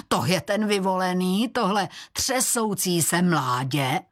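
lightly voiced dark goddess mocking the weakling; mocking Morana. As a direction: sneer at the boy, lightly voiced. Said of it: "To Morana si přišla prohlédnout vyvoleného".

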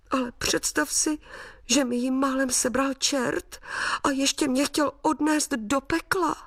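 put-on the little sprite tells his mother about the devil, childlike and tender; little boy to mum.

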